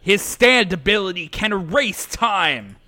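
high, loud exclamation; urgent warning shout. Acted. Character blurts urgent warning.

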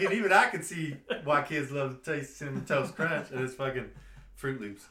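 hint of a put-on accent; light mock accent that fades away; a singer. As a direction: retell in a mild joke accent, amused. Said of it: "I don't know why I did that accent for Stevie Wonder".

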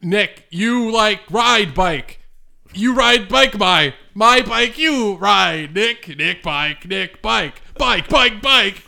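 slow, chopped word-by-word delivery; calm, spliced-tape talk. Acted. Fake evidence played for the courts, calmly chopped up. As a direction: speak like words edited together from a recording. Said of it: "He said that so calmly".

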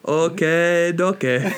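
light mock Asian accent on okay, okay; imitating Johnny's oddly accented okay, okay, only lightly. Host imitating Johnny saying okay, light mock Asian accent. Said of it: "like a Chinese person saying it".

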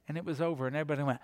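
ordinary talk

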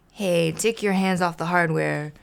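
a hint of a grumpy grouch; lightly voiced grouch; grouchy grumble. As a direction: complain from inside the can. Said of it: "a grouchy voice grumbled".

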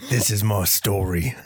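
slow, solemn action-hero voice; lightly voiced British tough guy; mock movie-trailer introduction; Jason Statham. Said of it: "My name is Jason Statham".

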